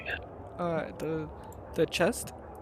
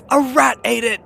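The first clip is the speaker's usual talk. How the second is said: playful exclaim; 8 semitones higher, 15 dB louder than usual. Real, not acted. Joking excuse about cookie.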